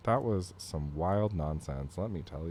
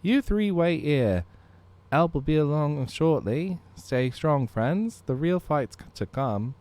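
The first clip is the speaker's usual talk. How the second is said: heroic character voice; 8 semitones higher, 8 dB louder than usual. Acted. Voicing game character lines.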